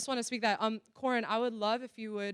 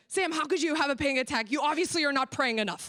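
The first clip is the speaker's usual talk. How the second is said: mock judgmental counselor; 4 semitones higher than usual. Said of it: "There was no judgment of".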